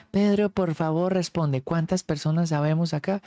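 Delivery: solemn invocation. Retold or imitated. Friend reading the question aloud.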